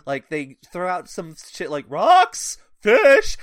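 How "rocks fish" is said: high, loud blurted guesses; shouted guesses. Acted. Characters throwing out wrong answers to Rincewind, mock shouting. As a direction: fire out each word like a game guess.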